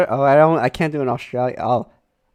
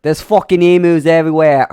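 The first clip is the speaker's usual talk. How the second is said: Australian accent; 4 dB louder than usual. Shown as a demonstration. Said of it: "channel my inner, like, Steve Irwin".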